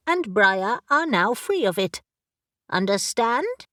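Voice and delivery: brisk, impatient talking raven; a raven who has searched everywhere and is exasperated; bossy raven. Acted. Raven character voice.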